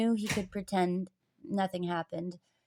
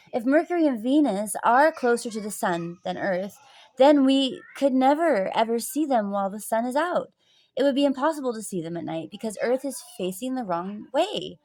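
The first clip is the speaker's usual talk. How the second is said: louder, higher insistent argument; confident challenge; 4 semitones higher, 6 dB louder than usual. A narrator's reading. Pupil arguing with the teacher about Mercury and Venus, insistent. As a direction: drive the objection home emphatically.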